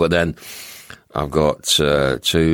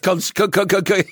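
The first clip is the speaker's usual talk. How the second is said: laughing stammer. Retold or imitated. Teasing the broken joke.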